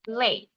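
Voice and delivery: Lei with a falling pitch. Shown as a demonstration. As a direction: model Lei gliding downward. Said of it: "nadanya itu turun ke bawah". (Lei dengan nada turun ke bawah)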